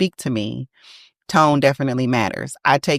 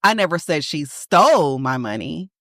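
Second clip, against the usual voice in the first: stole pushed up and stretched; stress on stole. Shown as a demonstration. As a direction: lean on the word stole. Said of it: "Perhaps she borrowed my money".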